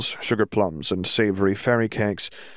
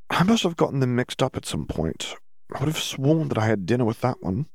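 higher-pitched, mildly puzzled character voice; puzzled Hermione; 4 semitones higher than usual. Acted. Hermione mixed up the Death Eaters, puzzled. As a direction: puzzle it out, pitched a bit high.

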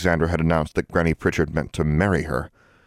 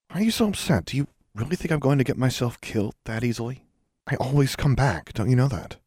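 higher-pitched, earnest questioning; reassuring; 8 semitones higher than usual. A narrator's reading. Witch to her upset friend, reassuring. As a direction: gently protest that there's no need to worry.

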